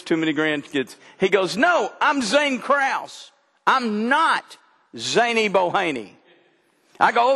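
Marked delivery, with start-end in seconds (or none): 1.6-6.1 lightly voiced little boy, higher and slow; a hint of a stubborn two-year-old correcting grandpa; mildly mimicked toddler protest; toddler insisting. Grandson insisting on his name.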